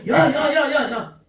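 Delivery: mock-scold the disciples, half laughing; scolding Jesus. Jesus rebuking faithless disciples, hammed-up scolding. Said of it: "꾸짖으셨대요".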